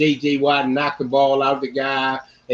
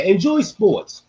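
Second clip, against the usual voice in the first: slow emphatic; 6 semitones higher, much slower than usual. Acted. Closing exhortation.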